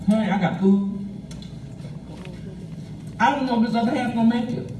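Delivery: talking with a mouthful of sandwich; mouth full. Real, not acted. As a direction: speak through a mouth full of food. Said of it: "I'm sorry to talk with my mouth full".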